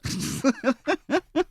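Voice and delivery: high laughing reassurance, slowing at the end; laughing falsetto. Acted. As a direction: soothe the jealous fans, laughing.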